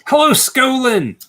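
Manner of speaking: high, slow, drawn-out hello; hammed-up announcer hello; mock announcer greeting. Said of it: "so you sound official".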